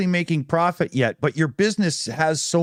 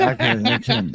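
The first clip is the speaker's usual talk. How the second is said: laughing; 4 semitones higher than usual. Real, not acted. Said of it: "I'm taking that off for a second".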